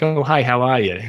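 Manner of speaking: squirrel puppet imitating a meditation teacher; lightly voiced friendly puppet greeting; a hint of New York-Boston in a puppet hello; Jon Kabat-Zinn. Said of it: "it was Jon Kabat-Zinn's voice".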